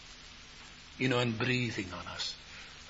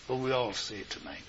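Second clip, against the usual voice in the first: softer, faster invitation to the congregation; hushed invitation; 4 semitones lower, 5 dB quieter than usual. Real, not acted. Preacher quietly invites the congregation to say it together. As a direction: ask them gently to join in.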